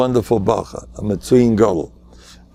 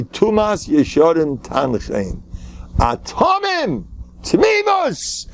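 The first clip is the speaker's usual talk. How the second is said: Atomim and Tmimus cried out very high and slow; fervent high cry; 8 semitones higher, slower than usual. Retold or imitated. Preacher quoting his yeshiva teachers, crying out high and drawn out. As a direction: sing out the old yeshiva motto like a rebbe. Quotes Novardok teaching with fervor.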